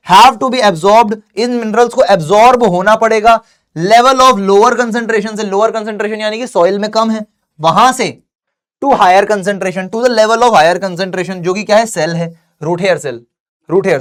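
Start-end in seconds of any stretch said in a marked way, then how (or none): 0.1-5.4 very slow word-by-word note dictation. Acted. Dictating definition. 8.8-11.3 very slow word-by-word note dictation. Acted. Dictating definition.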